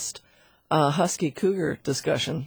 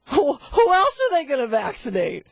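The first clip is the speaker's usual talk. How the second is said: high, incredulous disbelief; 8 semitones higher, 3 dB louder than usual. Real, not acted. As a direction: ask it in sheer disbelief. Incredulous at bat vaccination.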